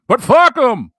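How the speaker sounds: loud and high, spitting out the curse; a loud, defiant shout. Real, not acted. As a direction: throw it back at the critics. Defiant dismissal of critics.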